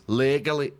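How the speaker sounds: Legally with a Scottish accent. Shown as a demonstration. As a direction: try to say Legally like a Scot. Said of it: "How the fuck would you say legally like those guys?".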